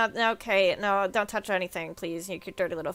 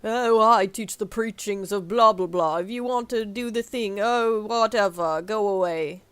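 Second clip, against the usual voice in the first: dismissive npc; 5 dB louder than usual. Acted. Voicing a dismissive priest NPC.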